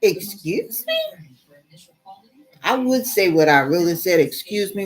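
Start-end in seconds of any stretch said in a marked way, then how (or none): 0.0-1.0 indignant retort. Retold or imitated. Indignant at operator. 4.2-4.9 censored retort. Retold or imitated. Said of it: "with the B in front of it".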